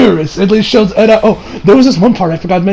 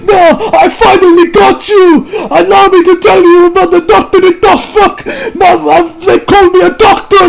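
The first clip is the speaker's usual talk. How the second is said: hammed-up doctor shout; 11 semitones higher than usual. The doctor barging in, high hammed-up yelling. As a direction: bellow your grand entrance like a madman. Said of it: "the doctor shows up and he's like".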